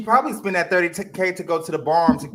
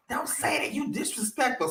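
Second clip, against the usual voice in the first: mocking the mama; 9 semitones higher, 3 dB quieter than usual. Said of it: "here come the mama".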